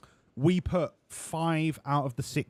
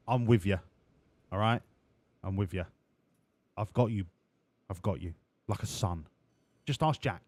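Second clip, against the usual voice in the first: team boss voice. Acted. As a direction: reassure the new driver like a swaggering team owner. Boss voice again.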